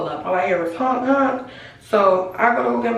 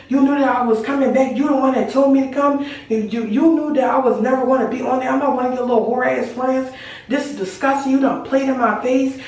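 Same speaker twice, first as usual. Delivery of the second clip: cursing her out; 4 semitones higher than usual. Retold or imitated. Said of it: "I'm cursing her the fuck out".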